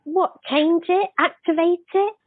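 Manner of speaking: taken aback and checking you heard right; real shocked disbelief. Real, not acted. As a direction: ask it in genuine surprise, voice lifting. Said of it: "just went to shock face".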